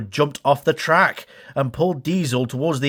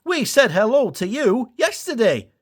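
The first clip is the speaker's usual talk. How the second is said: Dash voice; 10 semitones higher than usual. Acted. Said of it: "Dash said".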